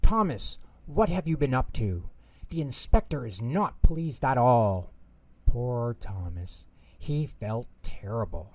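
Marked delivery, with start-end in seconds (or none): 0.0-4.9 cross. Acted. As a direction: scold the little engine, sharp on the name. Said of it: "Sir Topham Hatt was very cross".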